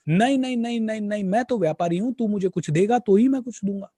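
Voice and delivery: the seth waving off the beggar with a firm no; insistent merchant. Retold or imitated.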